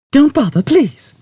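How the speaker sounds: high, loud cut-off; Trillian cutting in. A narrator's reading. Trillian silencing the computer, sharp. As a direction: shut it down firmly.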